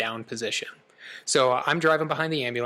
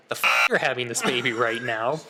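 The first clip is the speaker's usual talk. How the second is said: stunned echo, louder than the calm line; incredulous; 3 dB louder than usual. Retold or imitated. Husband's inner reply to his wife in labor, incredulous. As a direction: blurt it in disbelief, rising at the end.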